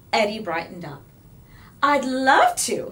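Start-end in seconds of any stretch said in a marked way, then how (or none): 1.8-2.9 cackled. A narrator's reading. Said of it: "he cackled".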